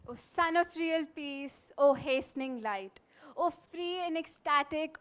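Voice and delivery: measured, declaimed verse with pauses between lines; formal stage poetry reading; poem recitation. Acted.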